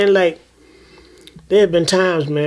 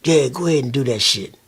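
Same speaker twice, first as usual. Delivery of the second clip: tempting voice; 3 semitones lower than usual. Retold or imitated. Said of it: "the voice will tell you".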